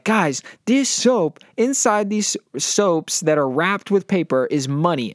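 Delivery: slow, high hawker's pitch; salesman pitch. Retold or imitated. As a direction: call it out like a street con man. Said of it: "yelling out to people and be like".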